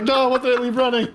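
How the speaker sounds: high mock panic through laughter; laughing panic. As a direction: retell the alarm, cracking up. Retelling panic at bill, laughing.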